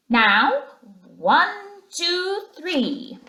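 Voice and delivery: high little mouse voice counting in; elder field mouse counting in the carol singers. A narrator's reading. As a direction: lead the carol, counting off the beat. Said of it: "the elder ones... was saying".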